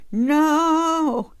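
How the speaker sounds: high, loud yelled no. Pretend. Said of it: "by the way I yelled no that I can't sing".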